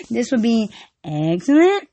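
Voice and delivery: slow. Shown as a demonstration. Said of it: "It goes something like this".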